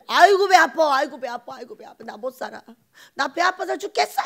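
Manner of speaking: hammed-up moaning about a stomach ache, loud at first then fading; mock bellyache wail that dies away; mock groaning. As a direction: play up the jealous groan. Mock jealous groaning over neighbour's blessing.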